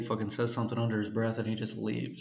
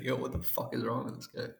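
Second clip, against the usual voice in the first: whispered onlookers; 7 dB quieter than usual. Retold or imitated. Imagined bus passengers.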